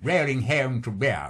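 "rolling home to Rio" with a Scots accent; a student's Scottish "rolling home to Rio" before correction; Scots vowels. Shown as a demonstration. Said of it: "rather than".

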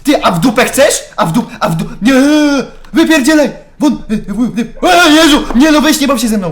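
high, very loud, stammering protest; panicked yelling. Real, not acted. Gamer telling an enemy to get lost, frantic shouting. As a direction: yell at the attacker, tripping over the words. Fighting off attacker in game.

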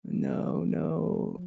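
soft, fading pleas of no; shrinking away, barely voiced; soft breathy refusals; withdrawing.

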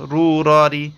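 র short, not রা; Arabic ra vowels; correct ra. Shown as a demonstration. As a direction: say র crisply, not রা. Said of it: "বলে ফেলবো না কিন্তু".

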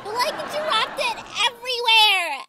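high, exasperated outburst; exasperated scolding. Acted. To a friend who dropped the bag, exasperated. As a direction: scold her in a high whine.

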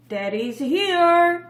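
each word stretched out slowly; slow model phrase. Shown as a demonstration. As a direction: model it slowly and clearly for kids.

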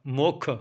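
ਮੁੱਖ with a heavy "kkh"; heavy doubled consonant. Shown as a demonstration. Teacher drilling learners on recitation, heavy end on ਮੁੱਖ. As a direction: close hard on the kh of ਮੁੱਖ. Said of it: "ਭਾਰਾ ਬੋਲਣਾ ਹੈ".

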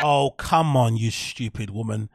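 loud exasperated outburst, slowing into scorn; fed-up, dismissive protest. Real, not acted. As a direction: scoff in disbelief, drawing out the insult. Reacting scornfully to played clip.

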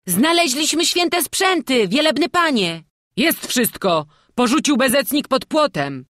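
high, loud, excited youngsters' cries; joyful shouts. A narrator's reading. Two lads run up to the priest, shouting joyfully. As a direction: shout the happy news at a high pitch. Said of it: "z radosnymi okrzykami".

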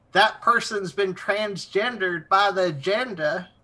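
a light mock Southern accent; weird Southern accent. Mocking people who use the term, in a light Southern accent. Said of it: "like, a weird Southern accent".

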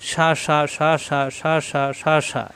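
eight even beats of "সা"; short vowel on each "সা"; quick short syllables. Shown as a demonstration. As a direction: rattle off "সা" eight times in steady rhythm. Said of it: "হরকতের উচ্চারণ তাড়াতাড়ি".

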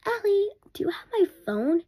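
high mock mom call from downstairs. Kid imitating mom calling for her phone, high call. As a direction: call out like mom from another room. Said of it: "my mom screamed and she was like".

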